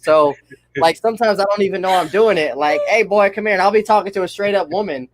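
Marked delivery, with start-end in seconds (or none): 2.9-3.5 lightly put-on cartoon dad calling his son; a hint of a good-old-boy father hollering for his boy; Hank Hill voice. Friend shows his habit of the old cartoon voice, lightly voiced good-old-boy dad. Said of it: "do that voice all the time".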